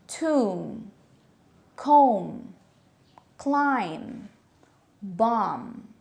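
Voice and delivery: tomb, comb, climb, bomb ending on M, no B; silent B. Shown as a demonstration. Teacher modelling the word group, silent B. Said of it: "has a silent B sound".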